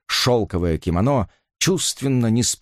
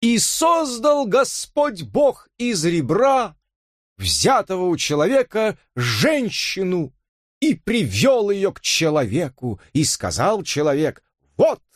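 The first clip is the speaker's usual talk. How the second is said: high, slow preacher's intoning with a breaking voice; pompous scripture; 8 semitones higher, slower than usual. A narrator's reading. Robert pompously recites Genesis to Elisa, voice breaking. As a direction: declaim it like a sermon, cracking. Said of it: "напыщенно произнёс срывающимся голосом".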